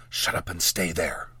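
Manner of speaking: forceful whisper, low and hushed; whispered order. A narrator's reading. Mage shoves apprentice down, whispered order. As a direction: whisper it as a stern command.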